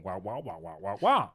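lightly voiced Peanuts teacher wah wah; muffled wah wah talk. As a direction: drone wah wah like a cartoon adult. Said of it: "coming across like the Peanut Gang".

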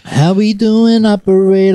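smooth operator. Acted. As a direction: croon it like a lounge singer.

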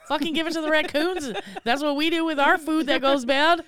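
put-on indignant kid. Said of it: "And I'm like".

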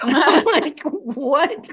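high, loud laughing reaction. Real, not acted. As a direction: crack up while getting the words out. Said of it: "I was laughing".

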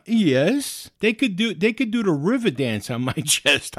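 fired-up retold comeback; emphatic insistence. Acted argument about being resuscitated.

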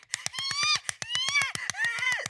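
high barking squeal like a seal. Retold or imitated. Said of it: "like a fucking seal at SeaWorld".

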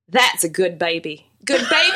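lightly imitated Southern diner man; Southern accent. Man at the diner counter admiring a baby, Southern accent. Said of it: "pick up the Southern accent".

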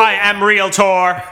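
slow, stiff robot voice. Pretend. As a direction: speak like a house-selling robot. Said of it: "the robot that sells houses".

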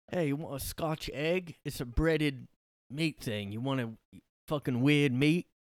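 lightly put-on British pub accent; mock British offer of pub food. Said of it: "I can't do the accent".

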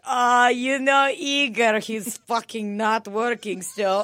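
slow, loud complaining mom; a hint of the nagging mother; lightly voiced mom. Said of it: "be like".

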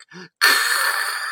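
unvoiced gargling chuckle imitation; gargling laugh. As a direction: imitate dad's gurgling laugh. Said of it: "he would do this gargling noise".

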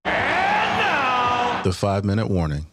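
slow, high, shouted show title; announcer callout. Acted. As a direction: belt out the show name.

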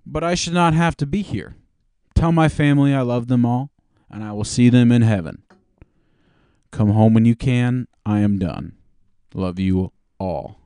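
Obama voice. Retold or imitated. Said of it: "Do Obama voice for this one".

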